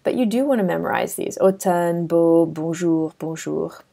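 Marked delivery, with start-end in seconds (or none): 1.4-3.8 careful French pronunciation of "beau, bonjour"; French example words. Shown as a demonstration. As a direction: model "bonjour" with a French r, then soften it. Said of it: "these are example words".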